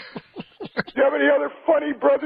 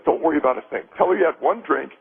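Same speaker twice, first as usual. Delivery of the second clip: lower, reassuring coaching of a pal; low, matter-of-fact reassurance; reassuring friend; 7 semitones lower than usual. Acted. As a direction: talk a worried friend down. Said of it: "His friend says".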